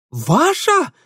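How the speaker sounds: high, loud disbelieving voice; Ingvar incredulous. A narrator's reading. Ingvar questions Mitya's claim, high and incredulous. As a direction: squeak it in disbelief.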